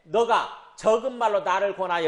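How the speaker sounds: a hint of a challenging ruler; lightly voiced king. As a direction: quote the king weightily, slowly. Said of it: "아그리빠가 바울에 이르되".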